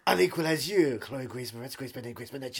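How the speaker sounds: hammed-up action-hero threat; mock threat. Actor quoting his own film line, as a mock threat.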